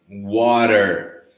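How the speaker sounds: Water with the T between R and D; flapped T. Shown as a demonstration. Teacher modelling Water for the class. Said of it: "with a sound of R or D".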